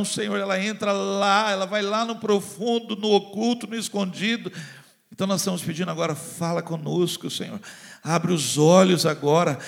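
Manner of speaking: rising and falling prayer voice, building to urgent pleas; fervent prayer. Acted. Pastor praying over the congregation, fervent then hushed. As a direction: pray aloud over the people.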